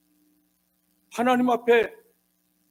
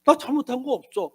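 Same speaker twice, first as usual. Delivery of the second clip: mildly acted indignation, higher-pitched; Job angry; 5 semitones higher than usual. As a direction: protest innocence as an aggrieved man. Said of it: "욥이 화가 나가지고".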